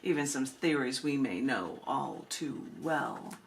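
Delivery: measured, lilting spoken-word delivery; unhurried poem recital with pauses between lines; poetry reading. Acted. Reads her poem at book reading.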